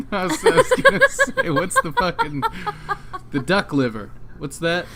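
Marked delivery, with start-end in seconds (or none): 0.1-2.4 laughing while talking. Real, not acted. Laughing while searching for word.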